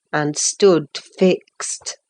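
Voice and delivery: plain reading voice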